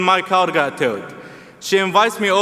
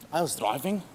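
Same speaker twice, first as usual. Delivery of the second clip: mock slow explaining; 6 dB quieter than usual. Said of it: "Our communication looked like this".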